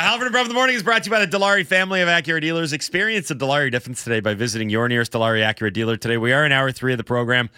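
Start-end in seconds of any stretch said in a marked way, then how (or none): 0.0-6.2 fast sponsor read. Acted. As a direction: rattle off the sponsor copy.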